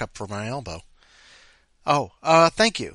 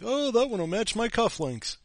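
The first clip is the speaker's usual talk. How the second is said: mock posh diner; 11 semitones higher than usual. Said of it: "It's like".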